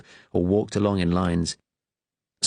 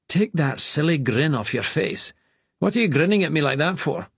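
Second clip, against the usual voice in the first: stern master; 8 semitones higher than usual. A narrator's reading. Master rebukes grinning boy.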